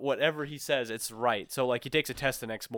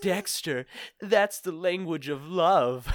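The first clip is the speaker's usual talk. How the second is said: put-on swooning girls; 5 semitones higher, 3 dB louder, much slower than usual.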